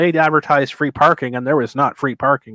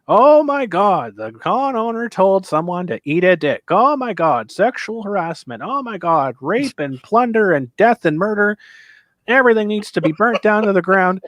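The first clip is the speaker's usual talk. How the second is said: mock hysterical outrage; 6 semitones higher than usual. Imitating online commenters going off the deep end, mock hysterical. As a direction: wail each "Oh my God" in exaggerated horror. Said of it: "they are going off the deep end".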